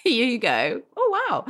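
high-pitched mock-impressed cooing; impressed family. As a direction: imitate relatives marvelling, with a laugh. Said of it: "all my family being like".

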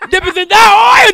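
full-throated mock revival shout; mock preaching. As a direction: hit it harder like the preacher's climax.

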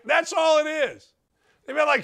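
usual speaking voice

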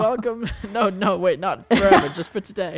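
high, pompous lecturer voice; Professor Dicklecunt. Acted. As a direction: lord it over the class, up high. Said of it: "I'm introducing myself".

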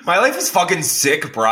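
lightly voiced laid-back surfer dude; a hint of surfer bro; surfer bro imitation. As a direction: mimic a chill stoner bro. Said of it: "You sound nothing like that".

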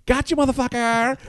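high gleeful gotcha yell; mock gotcha shout. Friend crowing over a prank win, high mock yell. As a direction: crow it like you won the prank.

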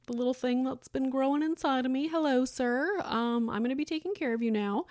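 mildly awkward, matter-of-fact greeting; retold matter-of-fact reaction. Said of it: "very matter-of-fact situation".

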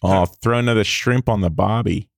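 put-on playful Australian accent on request. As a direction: give the Aussie catchphrase a light Australian twang. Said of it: "Can you say".

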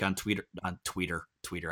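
"Twitter" said as "tweeter"; dad-like mispronunciation. Real, not acted. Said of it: "I sound like my dad".

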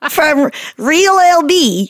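drawn-out bad Australian accent with laughter; terrible Australian accent. Host reads out reviewer's name, bad Australian accent. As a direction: giggle through a fake Australian accent. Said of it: "I do a terrible Australian accent".

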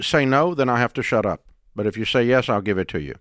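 low, measured friendly counsel; gentle persuasion. Acted. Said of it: "I have to use persuasion with everyone now".

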